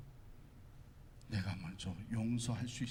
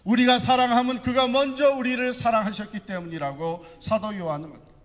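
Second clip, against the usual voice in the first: high, loud impassioned preaching; loud pulpit proclamation, pitched high throughout; preaching at full force; 12 semitones higher, 12 dB louder than usual. Real, not acted. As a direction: belt out the scripture with full conviction.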